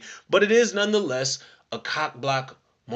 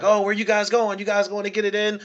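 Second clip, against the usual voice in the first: mock cheering crowd; 6 semitones higher than usual. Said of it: "cheering them on".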